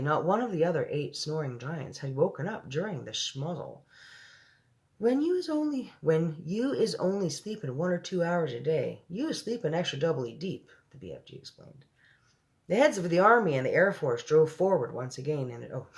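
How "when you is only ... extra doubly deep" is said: lightly voiced, friendly giant; BFG. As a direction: explain it as the giant, pitched a little high.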